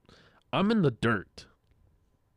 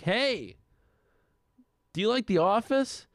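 higher-pitched call down to strangers; 8 semitones higher than usual. Retold or imitated. Calling to girls from dorm window.

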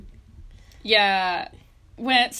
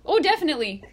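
put-on a light Canadian Ontario accent, pitched up, on the "eh" and "oh yeah"; Ontario dad accent; 8 semitones higher than usual. Daughter imitating how her Ontario dad talks, lightly hammed-up Canadian accent. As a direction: mimic a Canadian dad from Ontario, half-teasing. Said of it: "my dad talks like".

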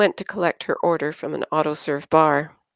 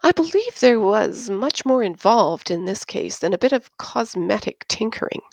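patronizing; 4 semitones higher than usual. Acted. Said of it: "adopted a patronizing manner".

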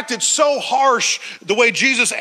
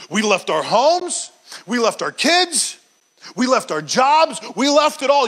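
frustrated Peter. Acted. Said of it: "you can see his frustration".

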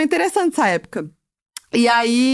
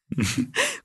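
sudden high laugh; high burst of laughter; 7 semitones higher, 8 dB quieter than usual. Real, not acted. Laughs at father's display story.

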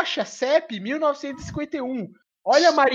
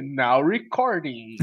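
slow, low robot voice; 11 semitones lower, much slower than usual. Pretend. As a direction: mechanical robot announcement. Greeting the recording bot Craig. (voz de robô lenta e grave)

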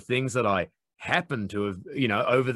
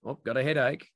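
mock innocent; 3 semitones higher than usual. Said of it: "where you go".

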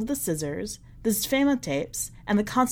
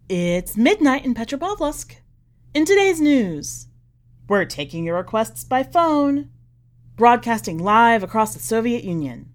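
louder, bright broadcast announcer read; Soviet radio announcer; 5 dB louder than usual. Acted. Old tapes playing to the cat, louder announcer voice.

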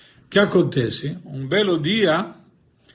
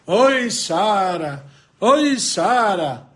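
slow, drawn-out wailing call for Sara; crying lament; 2 semitones higher, 3 dB louder, much slower than usual. Acted. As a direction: moan her name like a heartbroken madman. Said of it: "o dia inteiro chorando". (lamento choroso e arrastado)

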